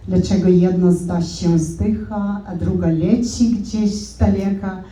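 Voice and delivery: poem recitation. Shown as a demonstration. Demonstrating Polish to the audience by reciting a poem. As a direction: recite the Polish verse with measured, lyrical phrasing. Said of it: "This is Polish".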